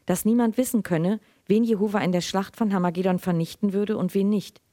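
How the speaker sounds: measured literary reading aloud; Lesung. A narrator's reading. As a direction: read the story evenly to an audience, in clear phrases. (ruhig vorgelesene Erzählung)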